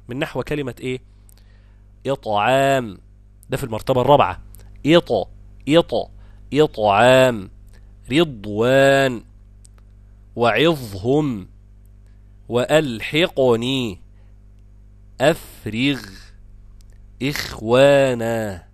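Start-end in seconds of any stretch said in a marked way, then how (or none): 2.1-3.0 careful recited إطعام; tajweed demonstration. Shown as a demonstration. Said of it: "المفخم الساكن بعد الكسر". 4.9-18.6 slow, drawn-out model recitation of each word; word-by-word recitation drill, stretched out; tajweed demonstration. Shown as a demonstration. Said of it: "المفخم الساكن بعد الكسر".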